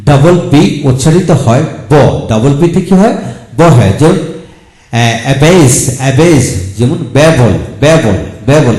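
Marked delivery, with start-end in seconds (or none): 5.2-8.7 teacher spelling out ব্যাবল for the class; demo pronunciation. Shown as a demonstration. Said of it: "এখানে double একটা এল উচ্চারিত হবে". (ব্যাবল শব্দটি স্পষ্ট করে, একটি ব উচ্চারণে)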